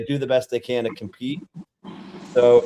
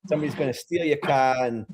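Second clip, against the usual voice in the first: put-on a light Southie Boston accent; a mild Boston Southie accent; Southie impression; 3 semitones higher than usual. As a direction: drop the r's, park the car Boston style. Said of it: "Can I do a Southie impression?".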